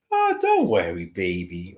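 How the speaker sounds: soft lyrical grandma. Retold or imitated. Medium describing the grandmother's voice, soft and lyrical. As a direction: soothe like a grandmother calming a child. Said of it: "soft, lyrical rhythm of speaking".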